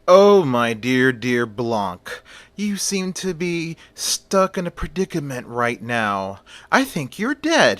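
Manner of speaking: lightly voiced witch with a Haitian accent; mock-sweet witch, light Haitian accent. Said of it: "with her heavy Haitian accent".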